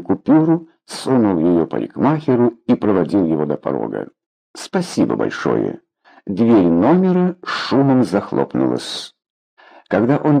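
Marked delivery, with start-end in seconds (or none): 4.5-5.8 low, curt thanks; сухая благодарность. A narrator's reading. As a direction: dismiss him with a low-pitched thank-you. Сухо выпроваживает парикмахера. (сухо, низким голосом)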